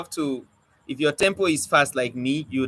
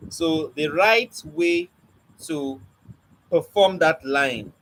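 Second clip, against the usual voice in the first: slow deliberate delivery; slower than usual. Shown as a demonstration. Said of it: "rush the longer line and slow down the shorter line".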